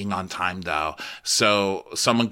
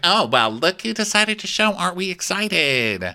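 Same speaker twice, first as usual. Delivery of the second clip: sarcastic greeting; 8 semitones higher than usual. Retold or imitated. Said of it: "she's like".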